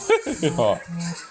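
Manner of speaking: laughing. Real, not acted. Gamer cracking up at own outburst, laughing.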